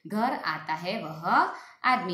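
very slow, word by word; slow, clear dictation of the sentence. Shown as a demonstration. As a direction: dictate the sentence slowly for writing. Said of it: "फिर से".

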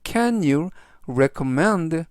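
slow, careful model phrase. Shown as a demonstration. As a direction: read Can you recommend very slowly. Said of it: "그래서".

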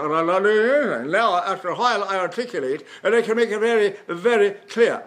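"very" and "clear" crisply articulated, a little Irish; over-clear articulation. Shown as a demonstration. Teacher showing tongue-led speech, "very clear" over-articulated, slightly Irish. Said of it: "it sounds a little Irish".

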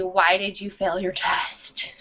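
quiet hushed question; whispered. Pretend. Example question.

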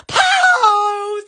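long drawn-out mock shout; hammed-up call. Host posing for her wall's picture, hammed-up call. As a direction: call it out like a photo command. Calls pose for imagined picture.

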